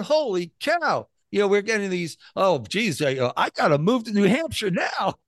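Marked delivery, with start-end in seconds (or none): 0.0-1.1 high, drawn-out mock amazement; voiced-up ecstatic exclamation. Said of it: "Absolutely ecstatic. They're going". 2.3-5.1 higher, eager imitated excitement; acted thrilled urgency; ecstatic. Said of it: "Absolutely ecstatic. They're going".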